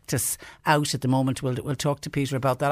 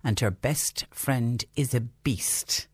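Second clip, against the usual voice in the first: put-on overbright kids party host; slower than usual. Host rereads the panto clue.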